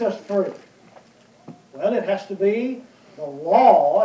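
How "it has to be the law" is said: it has to be the LAW, with law drawn out and slow; stress on LAW. Shown as a demonstration. Preacher stressing law to the brethren, slow and weighty. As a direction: lean slowly on the word law. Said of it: "let me emphasize the word law".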